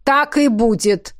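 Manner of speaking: slow, emphatic restrained roar. Acted. Coach overhearing the grumbling trainees, roaring. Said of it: "взревел Рурк".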